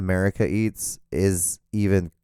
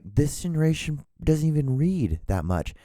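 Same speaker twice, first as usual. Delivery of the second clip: mock complaint; 7 semitones higher than usual. Quoting own written comment.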